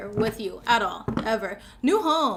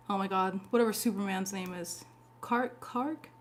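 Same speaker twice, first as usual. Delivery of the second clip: ordinary talk, nothing marked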